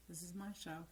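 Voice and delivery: quiet, calm inner reminder; soft self-talk. Shown as a demonstration. Coach softly voicing self-talk to her audience, quiet and calm. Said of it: "and you say".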